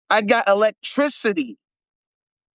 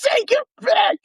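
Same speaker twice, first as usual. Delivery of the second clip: mock Lorraine; 12 semitones higher than usual. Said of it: "Lorraine ... talking about".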